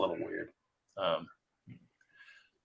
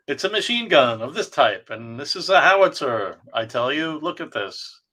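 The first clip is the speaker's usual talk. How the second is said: eager military show-and-tell; 4 semitones higher, 4 dB louder than usual. Retold or imitated. Mimics comic's show-off military explanations.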